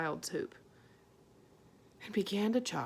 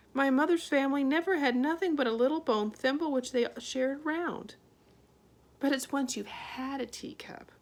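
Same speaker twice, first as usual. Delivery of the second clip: raised, fussing; a higher, busy mother voice; fretful mother; 6 semitones higher, 4 dB louder than usual. A narrator's reading. Homily lecturing her daughter, higher and fussy. Homily goes on about family.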